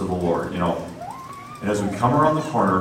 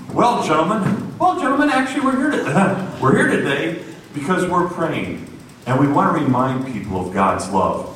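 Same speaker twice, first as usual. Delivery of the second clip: much higher, nervous, halting with a laugh; nervous stammer; 7 semitones higher than usual. Retold or imitated. Preacher nervously explaining to the crew, halting. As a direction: stumble through it nervously. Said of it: "barely getting this thing out".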